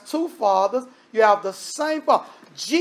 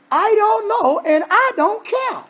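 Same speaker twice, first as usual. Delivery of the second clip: emphatic preaching; 11 semitones higher than usual. Real, not acted. Preacher answering his own why.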